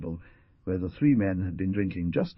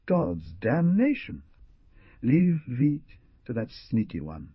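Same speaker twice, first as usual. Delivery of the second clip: brutal threat; 2 semitones higher than usual. Acted. Ruperto threatening the young man over the girl, brutal. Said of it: "and said brutally".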